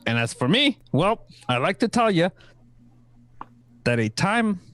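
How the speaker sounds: put-on Kiwi accent.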